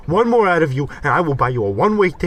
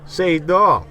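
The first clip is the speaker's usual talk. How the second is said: charm offensive; slower than usual. Acted. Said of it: "We just gotta turn on the charm".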